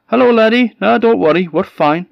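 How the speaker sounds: high, loud father's voice; a cheery Scots father. A narrator's reading.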